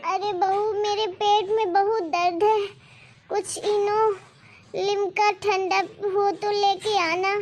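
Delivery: put-on slow, groaning old woman with a stomach ache; old mother in pain. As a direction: moan each word as if the pain won't stop. Mother-in-law complaining of pain. (धीमी, कराहती बूढ़ी सास की आवाज़)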